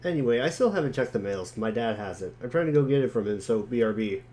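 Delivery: lightly voiced jokey boy. John brushing off his friend's teasing, quick and breezy. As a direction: rattle it off like a cheeky kid. Reads John's chat lines.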